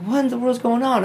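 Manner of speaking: high, loud frightened cry; panicked shout, voice jumping up; scared. Retold or imitated. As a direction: yell it out, terrified by the Reaper. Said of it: "I'm scared".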